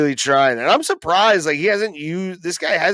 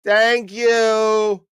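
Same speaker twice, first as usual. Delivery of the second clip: higher, mock-grateful call to the ref; sarcastic thanks; 4 semitones higher, much slower than usual. Real, not acted. Streamer to the referee, sarcastic raised thank you. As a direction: thank him like he finally did his job.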